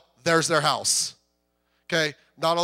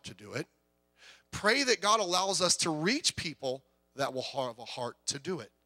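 soft earnest plea; 2 semitones higher, 3 dB quieter than usual. Acted. Soft earnest prayer exhortation.

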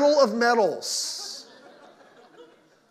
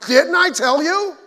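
higher, louder, slow told-you-so scold; 7 semitones higher, 7 dB louder, slower than usual. Retold or imitated. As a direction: rub it in slowly, half mocking. Voicing a know-it-all relative.

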